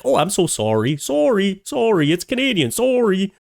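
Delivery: high-pitched, repeated mock apology; hammed-up apologizing, pitch leaping up on each sorry; mock apologetic Canadian. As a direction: imitate an over-apologetic Canadian. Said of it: "He was just like".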